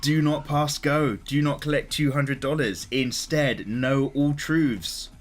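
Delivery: slow, solemn epic proclamation; grand announcer. Acted. Streamer unveiling the Megaverse to viewers, slow epic announcer voice. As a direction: intone it like unveiling a legend.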